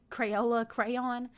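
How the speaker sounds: slow Crayola crayon, crayon in two clear syllables; careful crayon. Shown as a demonstration. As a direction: spell out Crayola crayon slowly. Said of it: "like the coloring crayon".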